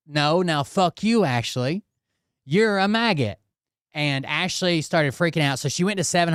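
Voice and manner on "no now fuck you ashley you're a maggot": mock angry mob. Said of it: "So then people are like".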